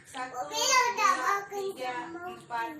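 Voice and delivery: drawn-out, loud and high count; slow loud counting. Shown as a demonstration. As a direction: stretch each number out loudly. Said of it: "counting out a long exhale".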